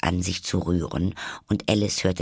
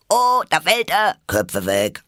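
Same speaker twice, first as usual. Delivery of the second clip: alarmierter Ruf; 10 semitones higher, 6 dB louder than usual. Acted. Tiere warnen vor Sturz.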